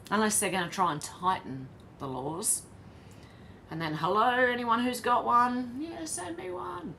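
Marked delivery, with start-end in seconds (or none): 3.9-6.9 slow, much higher sneaky caller voice; mock black market buyer. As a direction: play a shady buyer phoning around.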